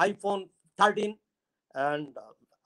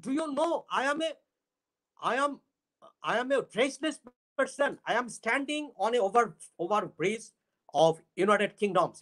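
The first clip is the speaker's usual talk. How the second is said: poetic recitation; 3 semitones higher, faster than usual. Shown as a demonstration. Showing literary talk, he addresses the western wind poetically. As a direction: recite it like a lovelorn poet. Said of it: "As for example".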